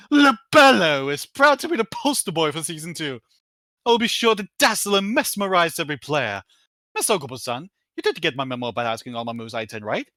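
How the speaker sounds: Libello. Acted. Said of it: "Libello himself".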